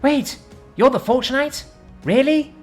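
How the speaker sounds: very high, loud thrilled gasp; excitedly. A narrator's reading. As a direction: fangirl in disbelief. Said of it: "asked Rosalind excitedly".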